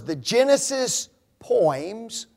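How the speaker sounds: the Genesis poems, drawn out and leaned on; slow down and weigh the Genesis poems; the Genesis poems said slowly and deliberately; stress on poems. Shown as a demonstration. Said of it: "notice that word".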